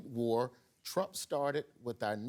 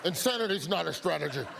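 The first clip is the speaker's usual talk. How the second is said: fast, laughing through the words; can't get the quote out without cracking up; laughing repeat; faster than usual. Acted. Host repeats the reporter's line, laughing.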